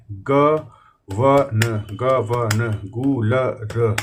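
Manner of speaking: गवन and गुलर stretched very slowly; very slow dictation. Shown as a demonstration. Teacher dictating typing words very slowly. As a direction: let each word crawl out. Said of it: "ध्यान से देखिएगा".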